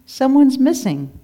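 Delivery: worried shepherd spotting a gap; alarmed. Acted. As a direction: realize a sheep is gone. Shepherd finds sheep missing.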